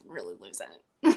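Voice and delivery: slow, fighting off the tears; on the verge of tears. Real, not acted. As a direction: voice dropping low, half laughing, half crying. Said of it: "I'm not gonna be able to really talk".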